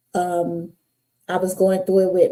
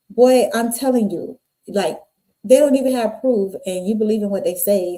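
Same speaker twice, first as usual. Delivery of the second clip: put-on a slightly raised, lecturing boyfriend voice; mild scolding; 2 semitones higher, 3 dB louder than usual. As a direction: scold her for believing street talk. Ex scolding her over street gossip.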